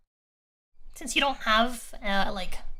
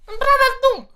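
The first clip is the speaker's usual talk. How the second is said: high, loud villain name call; dramatic announcement; 10 semitones higher, 6 dB louder than usual. Acted. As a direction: boom the name out.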